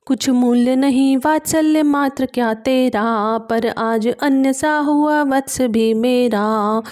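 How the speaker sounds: measured recital of classical verse; poem recitation. A narrator's reading. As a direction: declaim each verse line with gravity. Recites verse between explanations. (गंभीर काव्य पाठ)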